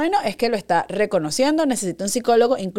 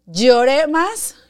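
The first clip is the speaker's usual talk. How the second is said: slow, louder wail on the words; mock crying; 4 semitones higher, 5 dB louder, much slower than usual. Retelling the sting of the medicine, slow and louder. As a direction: stretch it out like a child crying. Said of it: "Yo pegué un grito".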